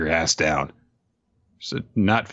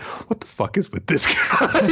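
high-pitched incredulous outburst breaking into laughter; hammed-up freak-out, laughing; flustered venting; 12 semitones higher than usual. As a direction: squeal it in mock panic. Flustered outburst over the comm.

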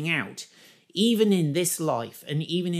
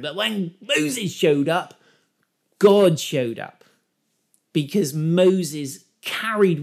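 excited preaching; 5 dB louder than usual. Real, not acted. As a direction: hammer it home to the congregation. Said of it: "getting so excited".

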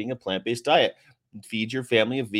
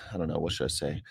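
ordinary talk

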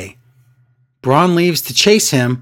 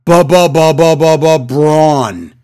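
mock stutter; 4 dB louder, slower than usual. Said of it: "that stutter Braun had".

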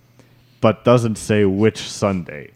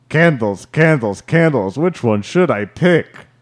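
higher-pitched, mildly raised crowd heckle; mock yell; 4 semitones higher than usual. Quoting a crowd member's shouted line, mild mock yell. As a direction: lightly imitate someone calling out. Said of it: "Someone yells out".

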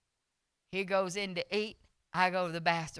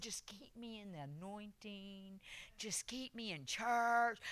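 tag; 9 dB quieter, slower than usual. Retold or imitated. Acted plea while preaching in pain.

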